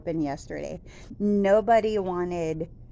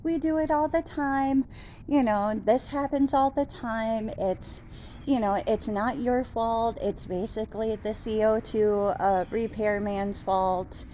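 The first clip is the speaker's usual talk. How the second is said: much higher, chirpy customer service lady; high sweet service voice; 3 semitones higher than usual. Retold or imitated. Customer service lady reassuring a caller, in a high chirpy voice. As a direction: imitate the cheerful phone rep brushing it off. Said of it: "And she's like".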